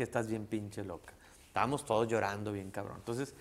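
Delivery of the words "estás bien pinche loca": slow fond scolding. Retold or imitated. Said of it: "ahí fue donde le dije".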